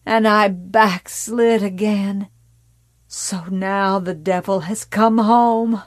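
lightly voiced religious fanatic confessing her sins; fanatical mother.

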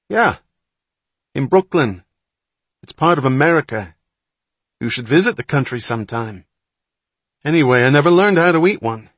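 put-on loud, high, sarcastic city-boy complaint; loud drawl. A narrator's reading. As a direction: project it so the whole pavilion hears. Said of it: "Wapner's loud drawl echoed".

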